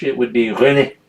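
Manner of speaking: René said the French way, ɹøne; French pronunciation. Shown as a demonstration. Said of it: "But in French".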